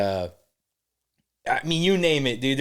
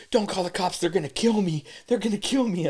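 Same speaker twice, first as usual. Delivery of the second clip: mild panicked pleading, higher voice; mock freaking out; 5 semitones higher than usual. Retelling the woman's fear of the cops, mild mock panic. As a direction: imitate someone begging, a touch frantic. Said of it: "she's freaking out".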